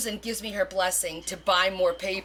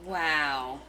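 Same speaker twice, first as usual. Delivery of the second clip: ordinary talk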